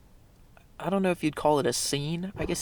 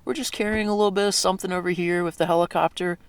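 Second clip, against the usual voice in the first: mock casual; 4 semitones higher, faster than usual. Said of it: "that was the most casual thing ever".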